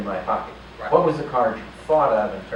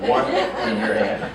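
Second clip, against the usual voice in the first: "One", a pause, then "in your hand"; slowed-down step-by-step instruction; slow motion; slower than usual. Shown as a demonstration. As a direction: draw it out slowly for a repeat demonstration. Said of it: "Let's do that again in slow motion".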